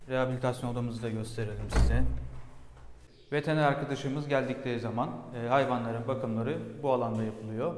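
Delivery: echoing room; cave echo. Real, not acted. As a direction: talk in a reverberant room. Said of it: "Şu anda ses yankı yapıyor".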